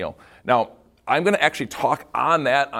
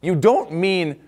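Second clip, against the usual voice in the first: questioning; 2 semitones higher, slower than usual. Retold or imitated. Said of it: "they say it with a question".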